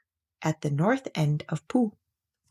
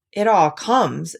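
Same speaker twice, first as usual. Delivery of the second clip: slow, louder, firmly stern; 5 dB louder, slower than usual. Acted. Rabbit answering Pooh back, stern. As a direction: lay down the law, gently stern. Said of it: "said Rabbit sternly".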